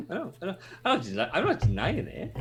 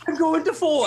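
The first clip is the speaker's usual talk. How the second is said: high, loud call; mock shout; 12 semitones higher, 6 dB louder than usual. One guy calling his number wrongly, shouted high. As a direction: holler it over the others. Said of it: "just shout your fucking numbers out".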